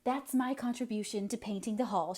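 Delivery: lightly breathless, gasped out; gasping. Acted. Catherine out of breath after running, lightly gasping. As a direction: say it short of breath. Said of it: "she gasped".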